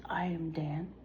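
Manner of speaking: hushed unvoiced whisper. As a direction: whisper it like a secret. Reading a secret tweet.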